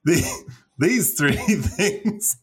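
Transylvanian accent sliding into a Southern country-singer twang; accent drifting from Transylvanian to Southern twang. Shown as a demonstration. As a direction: lose the vampire accent and land in Tennessee. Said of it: "That was like a singer at the end".

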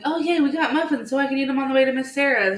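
put-on high, loud little kid cheer; imitated excited son. Eli happy about muffins for Miss Sarah's, imitated excited child. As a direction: gush like a delighted small child.

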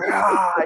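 mock adrenaline growl without full volume; jacked-up roar. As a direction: imitate an amped-up "aah". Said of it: "just so jacked up".

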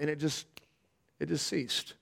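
awed near-whisper, a dread ended; hushed. Real, not acted. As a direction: let the words fall to a hush. Awed quiet after the dread lifts.

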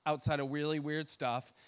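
quietly scared prayer. Retold or imitated. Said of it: "I'm like".

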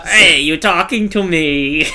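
slow, drawn-out tough-guy challenge; movie tough guy. Acted. Offers movie voice as example.

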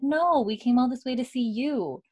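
high, cooing retold reassurance; affectionate reassurance. Reassuring Fergus about the visit.

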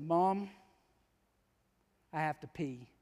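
low, soft murmur to mom; hushed child in church. Retold or imitated. Little Johnny to his mother in church, hushed. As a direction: quietly confide it, pitched low.

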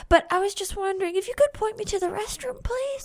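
lightly voiced small boy; a hint of a timid little boy. Little boy character asking directions.

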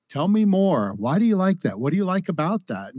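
bright, interested questioning; curious. Shown as a demonstration. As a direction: ask with open curiosity. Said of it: "replace judgment, I think, with curiosity".

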